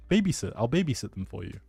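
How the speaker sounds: ordinary delivery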